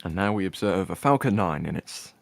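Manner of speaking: lightly hushed wildlife documentary narration; a hint of a nature documentary narrator; David Attenborough. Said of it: "I need to do some kind of David Attenborough voice".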